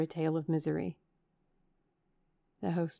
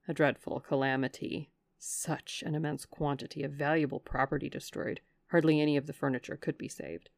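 a hint lower, grave servant telling news; lightly voiced old butler; 3 semitones lower than usual. Butler tells of the fire.

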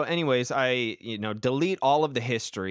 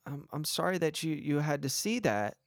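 softer, gently apologetic mom; soft sorry mom; 3 semitones higher, 5 dB quieter than usual. Retold or imitated. Mom comforting her son after the incident, soft. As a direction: apologize softly like a mother. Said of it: "It's like".

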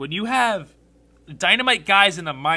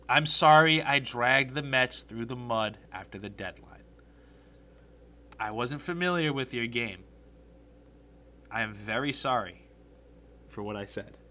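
solemn apology; 4 semitones lower than usual. Real, not acted. Fan apologizing to Mets fans for what he said, solemn. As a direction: apologize gravely, with long pauses.

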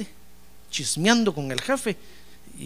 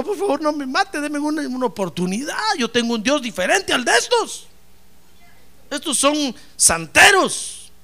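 higher, pleading for mercy; mildly frightened high pleading; begging plea; 7 semitones higher than usual. Acted. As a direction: plead for one more chance. Daniel begging for his life.

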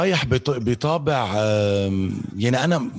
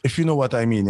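arabic english mix; slower than usual. Real, not acted. Switches to English mid-talk.

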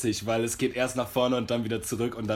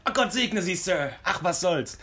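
put-on grateful old lady; 5 semitones higher, slower than usual. Old lady voiced, blessing.

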